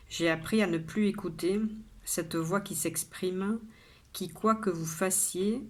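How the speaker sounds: measured poem reading with pauses between lines; poem recitation. Acted. Poet shares today's poem with viewers, measured recitation.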